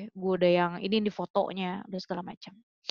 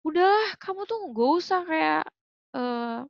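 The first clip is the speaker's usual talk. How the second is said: mock scolding from mom, higher and slow; retelling mom's upset rebuke in a higher voice; mother scolding; 6 semitones higher, slower than usual. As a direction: imitate a mother's angry scolding, pitched up. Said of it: "nyokap gue kayak marah-marah".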